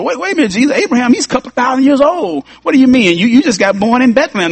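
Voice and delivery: high, doubtful mock questioning; lightly voiced scoffers asking what he means; incredulous skeptics. Skeptics questioning Jesus' claim.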